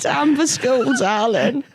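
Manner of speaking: high crone voice again; lightly voiced old crone; old hag. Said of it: "this crone voice that you give her".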